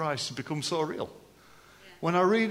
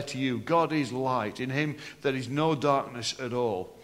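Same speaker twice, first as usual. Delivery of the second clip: scripture reading; 3 semitones lower than usual. Acted. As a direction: read the verses out to the congregation. Reads scripture aloud.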